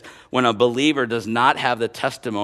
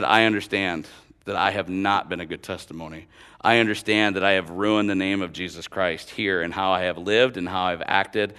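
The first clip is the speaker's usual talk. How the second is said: low, soft, earnest admission; subdued, regretful delivery; sincere confession; 6 semitones lower, 5 dB quieter than usual. Retold or imitated. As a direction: retell a coworker's humble confession quietly. Coworker confesses his bad testimony.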